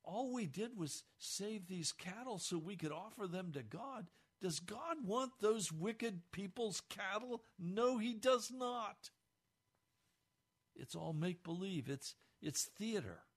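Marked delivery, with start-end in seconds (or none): 0.0-9.1 self-justifying. Retold or imitated. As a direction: defend yourself with false piety. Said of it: "So he's saying".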